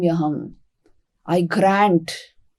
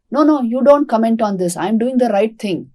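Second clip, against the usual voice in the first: annoyed; 3 dB louder than usual. Acted. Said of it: "he's annoyed".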